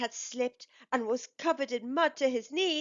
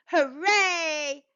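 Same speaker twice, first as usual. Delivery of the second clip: a louder, lifted group cheer; cheering shout; 4 semitones higher, 4 dB louder than usual. Acted. Workers lift Bucky up, happy cheering shout.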